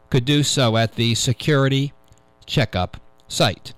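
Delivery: measured radio news-reader delivery. Real, not acted. Host reading a security news item to radio listeners, news read. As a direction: read the tech story out deliberately, phrase by phrase.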